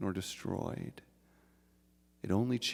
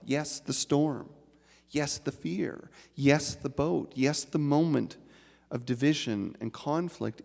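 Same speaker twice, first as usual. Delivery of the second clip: slow, rhythmic litany of yeses; preaching cadence; 3 semitones higher than usual. Acted. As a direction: preach it in measured repetition.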